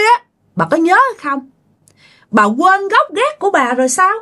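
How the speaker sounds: acted reproachful tirade; scolding. Wronged daughter-in-law berates her mother-in-law, scolding. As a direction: berate her with pointed questions. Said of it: "Đầu tiên á là chửi bà má chồng".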